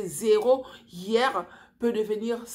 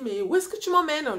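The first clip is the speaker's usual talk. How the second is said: sudden alarm, higher and louder; higher, louder rush of panic; panicked question; 7 semitones higher, 4 dB louder than usual. Retold or imitated. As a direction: she realises she's being taken elsewhere. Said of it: "Je commence à paniquer".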